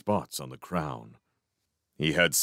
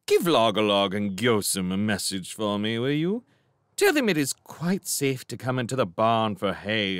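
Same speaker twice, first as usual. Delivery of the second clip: lightly lofty barn cat passing remarks; idle cat; 2 semitones higher than usual. Acted. Cat to mouse on his back, idle lofty chatter. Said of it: "he remarked idly".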